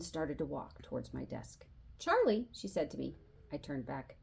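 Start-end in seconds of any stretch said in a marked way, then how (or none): 2.0-2.5 sharp high call of the name. A narrator's reading. Teacher calls Charlie back, sharp high call. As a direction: snap his name to stop him.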